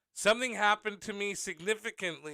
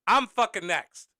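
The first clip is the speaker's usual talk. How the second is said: shouting, loud and higher, insisting he's next; angry yell; 5 semitones higher, 8 dB louder than usual. Retold or imitated. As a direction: yell at the lady who skipped you. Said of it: "I'd, I'd normally be like".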